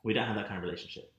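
firm, building to a loud retort; mock telling off. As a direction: tell him off point by point. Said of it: "And I'm like".

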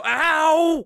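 mock pained ow; kid's ow. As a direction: squeak like a hurt kid. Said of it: "you're someone go".

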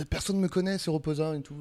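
imitating a rapper's Marseille accent. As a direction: lightly put on a southern Marseille twang. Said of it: "je vais faire l'accent". (légère imitation de l'accent marseillais)

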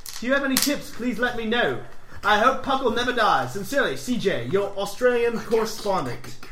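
put-on Aussie letter reading; Australian accent. Host reading Australian listener's podcast plan, put-on Australian accent. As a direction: read it with an amateur Australian accent. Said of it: "He's Australian".

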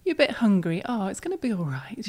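put-on gentle, lightly sing-song parent to a baby; reassuring baby-directed voice; sing-song baby talk. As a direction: soothe a little one with a lilting tune. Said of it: "using that sing-song voice that we use for babies".

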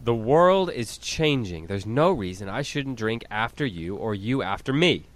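slow, deliberate persuasion; lightly acted Asbury. Asbury persuading Randall to share a glass, slow and emphatic. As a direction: press the point slowly and earnestly. Acted speech urging a farmhand.

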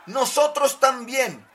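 high, slow toy voice; roller skates voice. Acted. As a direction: stretch it out high like a little skate. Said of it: "añadieron los patines".

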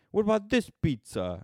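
high-pitched pitch to the boss; commercial customer. Acted.

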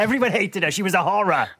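loud, high, through laughter; amused and laughing along. Real, not acted. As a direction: barely hold back the giggles while joking.

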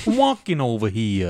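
put-on New York accent; hammed-up New York street talk. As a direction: play at being a New Yorker. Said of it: "New York accent".

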